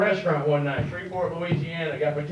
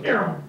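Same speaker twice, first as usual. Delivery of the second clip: quick falling "neeow" of a car; passing-car whoosh. Retold or imitated. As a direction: imitate a car zipping past. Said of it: "it goes".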